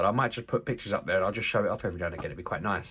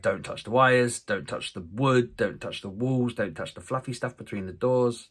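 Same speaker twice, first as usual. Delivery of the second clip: repetitive parental reel of warnings; nagging list of rules; 3 semitones higher than usual. Retold or imitated. Dad listing what his boys must leave alone, nagging. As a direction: reel off each don't in the same insistent tune.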